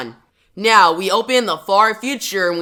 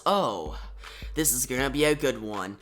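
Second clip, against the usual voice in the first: softly voiced little girl; 6 semitones lower, 10 dB quieter than usual. Girl opening the storybook.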